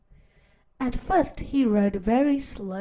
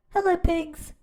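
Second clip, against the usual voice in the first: cheerful duck greeting; 6 semitones higher than usual. Acted. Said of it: "said Duck".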